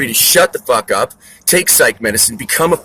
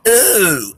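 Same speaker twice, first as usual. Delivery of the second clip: mock disapproving ooh; 7 semitones higher, 4 dB louder than usual. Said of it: "there was a lady yesterday going".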